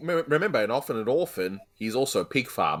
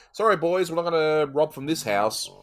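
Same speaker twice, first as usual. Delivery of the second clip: burglar; 4 semitones higher than usual. Pretend. Acting out a would-be burglar.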